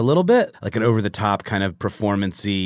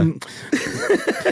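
nervous hum. Retold or imitated. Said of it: "He kinda pauses and is like".

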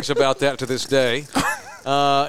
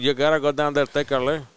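imitated Cuban English, endings dropped; Cuban accent. Fast food worker sending a driver down the road, Cuban accent. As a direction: leave words unfinished, Cuban style. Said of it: "that Cuban accent kicked in".

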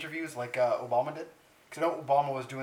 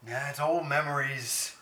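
slow, wistful mock reminiscing; Justin Trudeau; slower than usual. Trudeau refusing to trash his shoe polish, slow and wistful. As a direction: linger fondly over each phrase, half-whispered. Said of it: "He's like".

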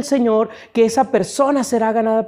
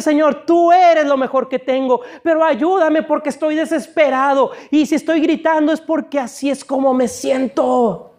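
high, pleading cry to God; acted desperate shouting; 5 semitones higher than usual. Preacher modelling a desperate prayer, crying out to God. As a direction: plead at a raised pitch, desperately. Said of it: "A gritar con Dios y decirle".

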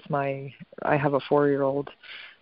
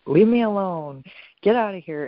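higher, louder imitation of a fed-up parent; mock irritated parent; 5 semitones higher, 4 dB louder than usual. Mother imitating parents brushing their kids off, mildly exasperated. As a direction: shoo the kid away in a mock huff. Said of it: "They're just like".

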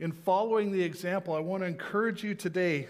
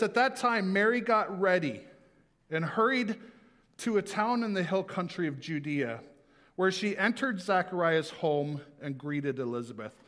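raised, earnest Bible reading; scripture reading. Acted. Pastor reading Luke to the church, raised and earnest. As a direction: read the verse out to the congregation.

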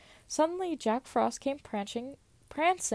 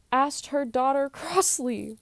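laughing through a line; 3 semitones higher, 4 dB louder than usual. Real, not acted.

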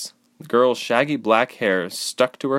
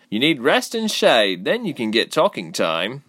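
grunted; 5 semitones higher than usual. Acted. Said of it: "the girl grunted".

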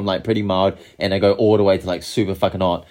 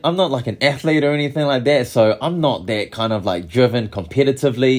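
high, animated retelling of a rapper; a rapper impression; 6 semitones higher than usual. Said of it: "and he's like".

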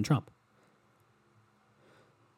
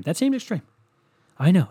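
high mock; 7 semitones higher, 5 dB louder than usual. Real, not acted. Repeated phrase.

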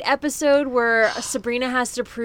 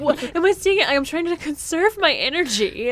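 higher mocking teen voice; mock Libby; 5 semitones higher than usual. Fan mocking Libby in her sunglasses, higher mock voice. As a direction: lightly imitate a silly, self-important girl.

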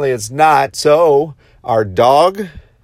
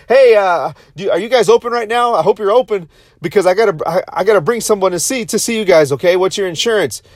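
higher, rushed and anxious, retelling a late-night call; urgent phone call; 5 semitones higher than usual. Retold or imitated. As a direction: plead to be let in right now.

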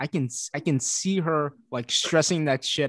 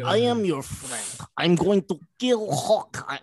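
mock Russian accent; 4 semitones higher than usual. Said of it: "she stresses that accent hard".

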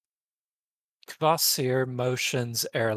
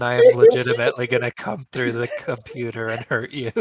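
mock threat; 3 semitones lower, 9 dB louder, much faster than usual.

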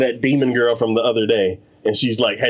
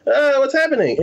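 higher, bewildered little cry of a confused ghost; mock confused spirit; 11 semitones higher than usual. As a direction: play the lost spirit, baffled and pitched up. Confused spirit voiced in retelling.

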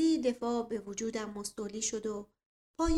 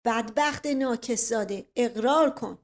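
angry; 7 dB louder than usual. Acted. Uncle throttles, demands confession.

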